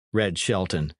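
ordinary delivery, nothing marked

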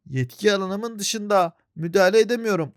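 a hint of a bureaucrat; lightly voiced robot. Voices the bike character.

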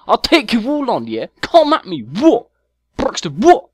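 hammed-up angry chav shouting back. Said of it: "he sounds like an angry little fucker".

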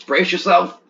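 hammed-up movie hero warning; playful action-hero heads-up; mock gruff warning. Same warning, stronger.

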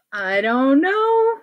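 drawn-out, rising doubtful tone; playful doubt. Acted. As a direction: slowly voice teasing uncertainty. Doubting the idea, to children.

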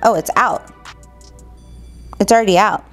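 ordinary talk

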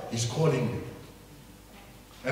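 slow whispered call; whispered encouragement. Acted. Crowd telling the beggar Jesus calls, slow whisper. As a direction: whisper it slowly, gently urging. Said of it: "They called to him and saying".

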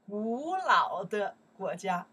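slow teacher model of 古老的国家; stressed model phrase. Shown as a demonstration. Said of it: "I not say 老，right? I say 古老".

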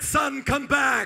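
a father calling his son from the bank; desperate father call. Acted. Father calling his son back from the river, slow and pleading. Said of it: "in his tears".

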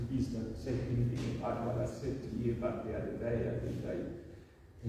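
dropping to a near whisper, pleading; hushed plea. Retold or imitated. Peter begging Jesus to keep quiet, in a near whisper. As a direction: keep it between us, barely voiced.

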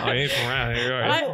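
imitating a Chicago local's drawl; broad Chicago drawl; Chicago accent. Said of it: "that known Chicago drawl".

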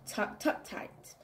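soft whispered tuck tuck; bedtime whisper. Acted. Tucking a child into bed, a fading whisper. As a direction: whisper it as you tuck them in.

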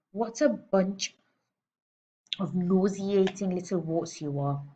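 slow, drawn-out contempt; disgusted sneer. A narrator's reading. Headmistress sneering slowly at the pupils. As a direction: savour every insult slowly.

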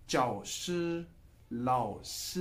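चाओ श and लाओ श, the श held level in first tone; first tone demo. Shown as a demonstration. Teacher models first tone श for students, level and steady. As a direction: keep श flat and even in चाओ श, लाओ श. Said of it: "वो बनती है first tone".

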